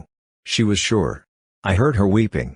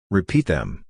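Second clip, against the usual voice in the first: heartbroken murmur; 2 semitones lower than usual. Acted. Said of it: "she murmured in a heartbroken tone".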